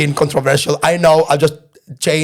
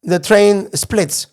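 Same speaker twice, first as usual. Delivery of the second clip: very slow, higher-pitched imitation of someone explaining; drawn-out retold explanation; 5 semitones higher, much slower than usual. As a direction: spell it out word by word. Woman explains splitting, retold.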